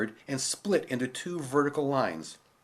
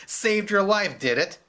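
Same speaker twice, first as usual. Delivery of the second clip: amused guard; 7 semitones higher, 4 dB louder than usual. Acted. Guard laughs at her.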